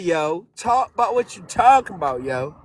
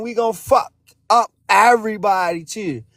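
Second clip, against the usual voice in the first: shouting. Real, not acted. Heated rant at the chat.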